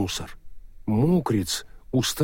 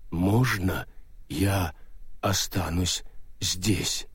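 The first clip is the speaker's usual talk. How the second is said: slow stone monotone; 4 semitones lower, 6 dB quieter, much slower than usual. Acted. Golem ghost asks.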